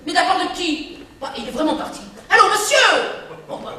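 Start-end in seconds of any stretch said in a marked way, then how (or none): 2.3-2.9 loud, high call down a dead line; aunt calling into a dead phone line. Acted. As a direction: try to get the caller back. Caller has hung up.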